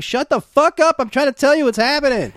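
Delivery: high, mock-furious retort; retold outburst. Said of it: "He's like".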